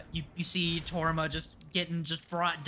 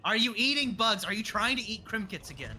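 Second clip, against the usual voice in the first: nagging mom voice; 5 semitones higher than usual. Acted.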